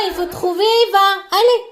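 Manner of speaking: ordinary delivery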